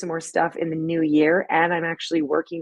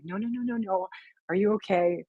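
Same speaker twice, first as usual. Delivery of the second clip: soothing; 2 semitones higher, 6 dB quieter than usual. Retold or imitated. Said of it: "Let's calm her down".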